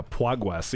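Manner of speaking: "Pwagwes" with w sounds for the r's; mispronounced "progress". Shown as a demonstration. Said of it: "I also can't say".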